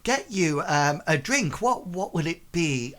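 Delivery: high, swooping hostess greeting; effusive, put-on tavern hostess; gushing barmaid. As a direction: gush over a guest in a high voice. GM voices Melissa fussing.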